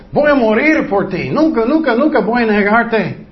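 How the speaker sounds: hammed-up proud promise to die for him; boastful vow. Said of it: "Él dijo". (juramento jactancioso, con nunca más agudo)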